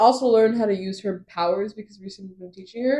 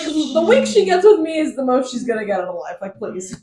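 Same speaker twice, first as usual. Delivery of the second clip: sassy; 2 semitones higher, 5 dB louder than usual. Retold or imitated. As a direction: dismiss them with mock sass. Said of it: "he's just so sassy".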